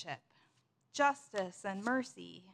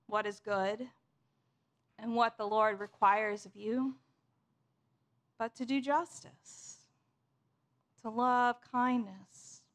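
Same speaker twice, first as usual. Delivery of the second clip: measured, understated voice from within; gut voice. Acted. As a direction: let each phrase settle, with pauses between. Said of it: "I'm gonna call it the gut voice".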